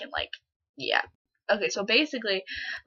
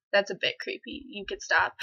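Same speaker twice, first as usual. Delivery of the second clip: understated retort; 6 dB quieter than usual. Retold or imitated. Girl repeats her rebuff to the classmate, understated and softer. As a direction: put him off under a light laugh. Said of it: "I said it out loud".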